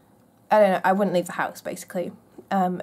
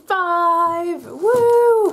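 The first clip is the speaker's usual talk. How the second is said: excited cheer; 10 semitones higher, 6 dB louder than usual. Real, not acted. Cheering on reaching day five.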